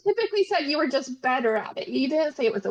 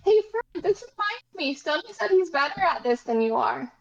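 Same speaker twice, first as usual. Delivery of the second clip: calling from far away; 4 semitones higher than usual. Acted. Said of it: "I'm going to shout over to Fern".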